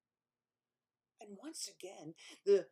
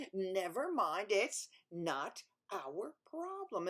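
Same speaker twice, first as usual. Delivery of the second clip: 1 slow dismissive king; slower than usual. Acted. King dismisses third time.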